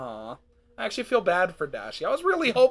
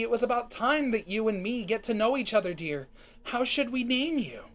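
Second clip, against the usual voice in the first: a hint of an expectant mother cooing; lightly acted mother, addressing her baby; lightly voiced doting mother; 4 semitones higher than usual. Cadance speaks to her unborn dear baby, lightly voiced doting mother.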